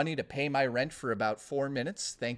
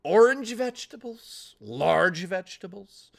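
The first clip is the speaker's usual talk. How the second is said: mock ad voice; 4 semitones higher than usual. Mock ad voice on sub.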